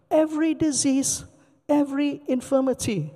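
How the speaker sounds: a preacher's emphatic repetition of "every"; stress on every. Shown as a demonstration. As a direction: hit each "every" to contrast disease and infirmity. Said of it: "they're not the same".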